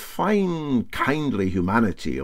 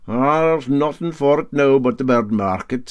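put-on raised, hearty old skipper voice; Para Handy's voice; 5 semitones higher, 5 dB louder than usual. Captain taking up the bet, hearty and raised. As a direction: bluff Highland captain boasting.

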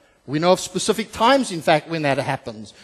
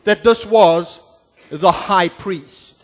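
apologetic Paul; 4 semitones higher, 7 dB louder than usual. Acted. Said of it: "And he says".

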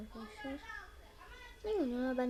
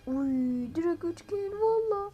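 excited cry; 5 semitones higher, 8 dB louder, slower than usual. Real, not acted. Triple kill in game.

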